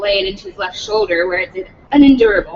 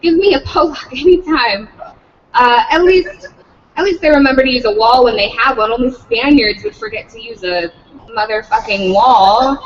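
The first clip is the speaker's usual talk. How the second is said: mock yelling teacher; 3 dB louder than usual. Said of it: "McPherson was screaming again".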